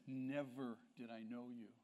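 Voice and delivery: low and grave, "Never" set apart at the front; stress on Never. Shown as a demonstration. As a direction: put the weight on "Never". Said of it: "That's emphasized".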